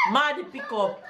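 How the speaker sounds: Jamaican patois phrase. Shown as a demonstration. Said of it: "That's the Jamaican expression for today".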